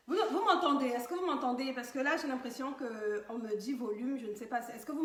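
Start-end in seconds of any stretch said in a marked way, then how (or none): 0.1-1.7 to someone hard of hearing. Real, not acted. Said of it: "il faut que je parle plus fort".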